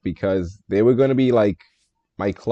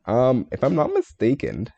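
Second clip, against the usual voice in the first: voice crack; 4 semitones higher than usual. Real, not acted. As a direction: voice cracking on the line. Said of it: "what a voice crack".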